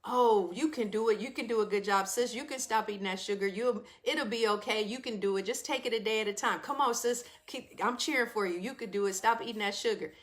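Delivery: a light, gentle pep talk, cheering her on; encouraging cheerleader voice. Acted. Will the friend cheering sis to quit sugar, gentle encouragement. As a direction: coax like a kind friend, only lightly voiced. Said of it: "Will will come and use a voice like this".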